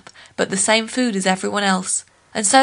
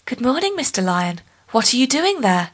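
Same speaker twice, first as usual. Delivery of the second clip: higher, lightly voiced woman's reply; a startled lady's greeting; Nancy's surprise; 4 semitones higher than usual. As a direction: answer a voice you can't place. Nancy answers the lion, surprised.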